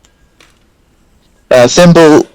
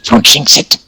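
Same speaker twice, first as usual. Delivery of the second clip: whispering; 3 dB quieter than usual. Real, not acted. Player nervously hushing.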